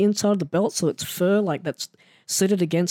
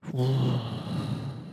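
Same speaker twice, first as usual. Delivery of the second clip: sigh; 4 semitones lower, 7 dB quieter than usual. Real, not acted. Overwhelmed after first match.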